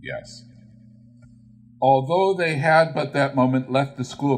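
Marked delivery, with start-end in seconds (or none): 0.0-0.5 uneasy. A narrator's reading. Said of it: "answered briefly".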